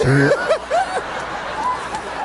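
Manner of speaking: real delighted laugh; high laughing whoop. Real, not acted. Laughing at own story.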